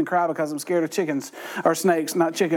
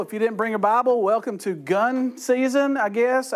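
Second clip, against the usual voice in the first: dry sarcasm; 4 semitones higher than usual. Acted. Pastor teasing the class who forgot Bibles, sarcastic. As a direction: tease the Bible-forgetters dryly. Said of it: "And that was sarcasm".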